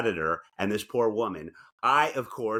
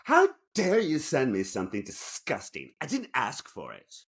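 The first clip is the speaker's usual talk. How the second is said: aggrieved woman; 3 semitones higher than usual. Acted. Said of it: "will be playing the aggrieved woman".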